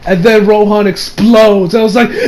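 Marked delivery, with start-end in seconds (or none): 2.1-2.2 high, long-drawn wail of horror; anguished mock scream. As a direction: scream it out in hammed-up grief. Acting own horror at Rohan exploding.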